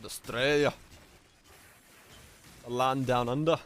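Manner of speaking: bad Australian accent; hammy Aussie twang, dragged out. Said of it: "That's a horrible Australian accent".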